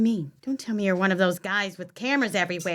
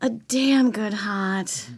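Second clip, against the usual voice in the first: slow and sultry; slower than usual. Acted. Sultry, in a trance.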